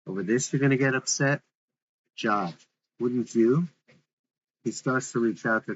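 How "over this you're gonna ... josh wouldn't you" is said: rhetorical. Acted.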